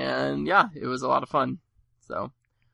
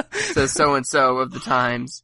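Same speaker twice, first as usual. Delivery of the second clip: mock trailer credit; 6 dB louder, much slower than usual. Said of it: "like, on a movie poster".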